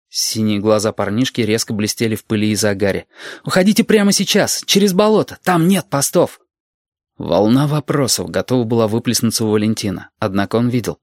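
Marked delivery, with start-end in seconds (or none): 3.5-6.4 high, urgent warning; nervous young soldier. A narrator's reading. Young soldier reveals the route through swamp, nervous. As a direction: urge escape in a high, tense voice. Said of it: "парень на нерве".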